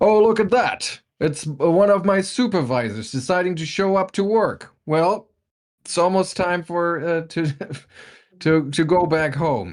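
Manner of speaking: very high, big, booming voice. A man at the lumber mill calls out to an arriving supervisor; booming voice. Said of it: "his booming voice calls out as he says".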